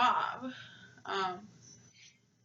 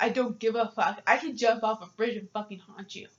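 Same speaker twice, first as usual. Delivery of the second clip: blunt retort; 4 dB louder than usual. Retold or imitated. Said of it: "I told her straight up".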